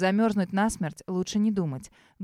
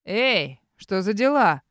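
истерика; 4 dB louder, slower than usual. Acted. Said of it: "в нём звенит истерика".

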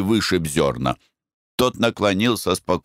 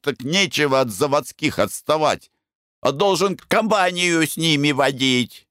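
put-on higher, slurring drunk rambling; slurred drunk speech; 11 semitones higher than usual. A narrator's reading. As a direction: slur it, half-drunk and pushy. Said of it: "говорит заплетающимся языком".

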